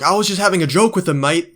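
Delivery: hammed-up defensive pro brushing it off; mock Kyrgios. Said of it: "and then he's like".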